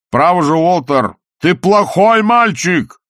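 high, slow mocking scold. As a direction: scold him like a naughty child. Salzella mocking Walter.

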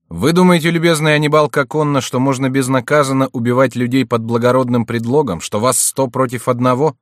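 explosive rage. Acted. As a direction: fling the accusation at him. Accusing rival of murder.

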